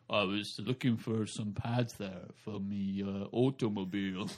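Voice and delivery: slow, low forced-cool voice; deep put-on voice. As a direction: drop it low to sound manly. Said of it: "And you go".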